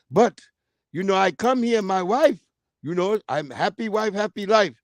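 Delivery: mock Arab-accented food vendor. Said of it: "He was an Arab too".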